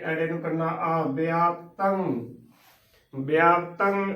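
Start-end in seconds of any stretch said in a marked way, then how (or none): 1.0-2.0 ਵਿਆਪਤੰ as "bi-aap-tang"; correct pronunciation demo. Shown as a demonstration. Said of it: "ਉਚਾਰਨ ਕਰਨਾ ਹੈ". 3.1-4.1 ਵਿਆਪਤੰ as "bi-aap-tang"; correct pronunciation demo. Shown as a demonstration. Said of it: "ਉਚਾਰਨ ਕਰਨਾ ਹੈ".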